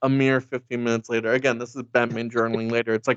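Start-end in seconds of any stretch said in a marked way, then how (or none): none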